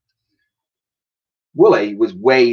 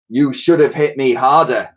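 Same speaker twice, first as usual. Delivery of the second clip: purred; 2 semitones higher, 4 dB louder than usual. Acted. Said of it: "he purred".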